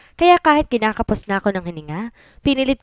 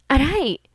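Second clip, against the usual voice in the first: yelp of pain; 7 semitones higher than usual. Acted. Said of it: "sigaw ni Liam".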